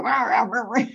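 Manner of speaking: imitated angry roaring gibberish; mock shark snarling. Shark entrepreneur reacting to a mistake, mock snarl. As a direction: make a playful predator's rant noise. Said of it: "The shark's gonna go".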